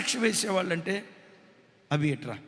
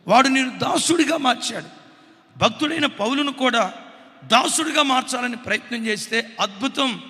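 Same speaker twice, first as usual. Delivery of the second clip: loud, driving sermon delivery; fiery preaching; 7 dB louder than usual. Acted. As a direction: pound the warning home from the pulpit. Preaches at full force. (ఉద్వేగంగా గట్టిగా ప్రసంగం)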